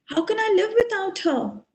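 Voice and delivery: mildly acted distress over a lost wife; anguished lament. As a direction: lament with question after question. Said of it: "he starts lamenting".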